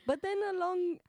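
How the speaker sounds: put-on halting New Zealand accent, restarting. Attempting a New Zealand accent story for the game. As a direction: fumble into a Kiwi storyteller voice. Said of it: "New Zealand".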